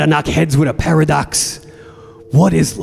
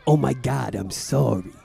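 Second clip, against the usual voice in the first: mock contrition; 6 dB quieter than usual. Mock contrite reply in quarrel.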